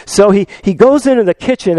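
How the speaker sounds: ordinary talk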